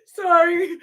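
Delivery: high, tearful laughing apology; can't stop laughing, half crying; laughing to tears. Real, not acted. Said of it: "Sorry, I'm crying, laughing so hard".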